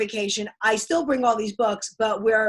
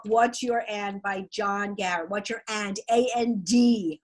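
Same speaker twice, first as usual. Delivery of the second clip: New York accent; 2 semitones lower than usual. Real, not acted. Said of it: "I got my New York accent going on".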